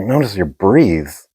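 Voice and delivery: slow, puzzled repeat of "breathes" with a long ee; puzzled echo. Retold or imitated. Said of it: "I was like".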